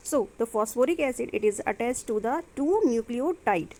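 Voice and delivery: very slow, word by word; dictating notes. Shown as a demonstration. Teacher dictating a note to her students, very slow and deliberate. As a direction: spell it out so students can write it down.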